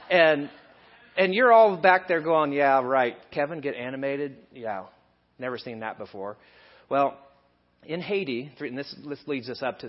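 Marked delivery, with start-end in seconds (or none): 2.5-6.4 dry imitated disbelief, sinking away; mock skeptical. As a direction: imitate doubters in the back row. Acts out skeptical congregation muttering.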